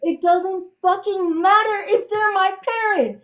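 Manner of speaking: furious, high, angry shouting yell. Arguing with someone who sides with their parents, angry shouting. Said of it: "stop shouting".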